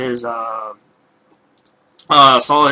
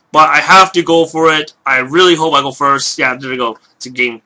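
hoarse voice. Real, not acted. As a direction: voice going hoarse, throat rough. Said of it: "losing my voice there".

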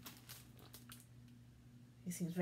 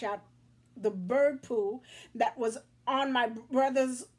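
put-on whiny crying kid; 4 semitones higher, 5 dB louder than usual. Crying boy lists his woes.

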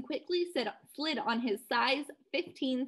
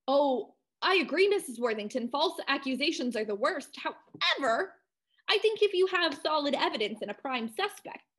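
higher, snooty upper-crust voice; Ivy League accent; 4 semitones higher than usual. Acted. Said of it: "I went full-blown Ivy League".

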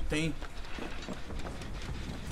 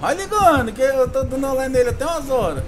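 being chased; 5 dB louder than usual. Real, not acted. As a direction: shout it while running away. Shouting during the chase.

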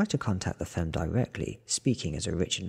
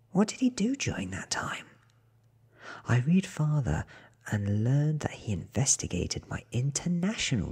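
higher, half-whispered narrating voice; second narrator; 4 semitones higher than usual. Acted. The killer reads the detective's notes on her, higher and half-whispered. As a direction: read it higher and hushed, close to the mic.

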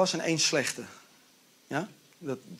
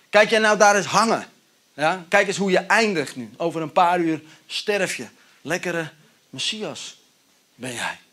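mocking taunt. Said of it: "Die zegt spottend tegen hem".

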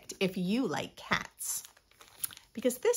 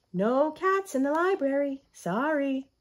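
higher, louder stern refusal; stern keeper; 4 semitones higher, 6 dB louder than usual. Acted. Keeper of the books refusing the cat, stern and loud. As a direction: lay down the rule to the stray cat.

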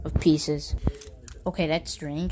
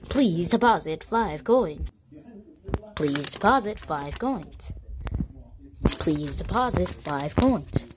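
machine announcement voice. Acted. Kid voices arcade machine prompt.

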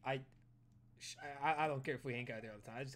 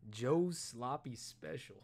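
slow reveal; 5 dB louder, much slower than usual. Acted. Slowly naming the secret item.

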